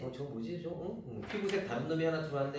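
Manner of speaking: soft, quick puzzled murmur to oneself; a curious sidelong mumble; quiet curious aside. Retold or imitated. Teacher voicing a curious passenger, soft and quick. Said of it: "하면서 살짝 곁눈질로 볼 수 있고".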